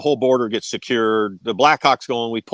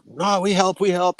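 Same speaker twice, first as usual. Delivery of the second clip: higher, eager broken-English voice; raised, pushy "we help, we help"; mock Indonesian soldier; 7 semitones higher than usual. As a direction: imitate the soldiers insisting they help. Indonesian soldiers insisting on helping.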